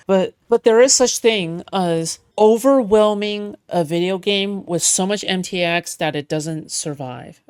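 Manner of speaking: booming echoing villain monologue. Pretend. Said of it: "now you just sound like some edgy villain".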